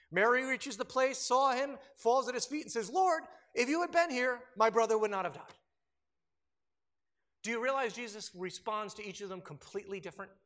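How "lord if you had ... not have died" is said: anguished plea. Retold or imitated. Mary falls at his feet.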